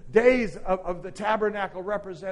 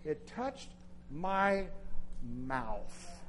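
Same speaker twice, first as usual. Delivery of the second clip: much softer, "mouth" barely voiced; hushed; 2 semitones lower, 8 dB quieter, much slower than usual. Pastor drawing the church in, near whisper. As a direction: let it fall to a breath. Preacher drops to hush.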